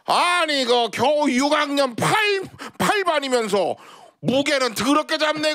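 put-on high, scolding old lady with laughs; foul mouthed granny. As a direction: bark at him like a cranky granny. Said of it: "욕쟁이 할머니".

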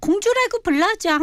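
high, cutesy wheedling; aegyo. Shown as a demonstration. Co-host contrasting tones by begging for princess nickname, high aegyo. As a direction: plead in a put-on sweet little voice. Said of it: "애교보다 이, 이런 톤이".

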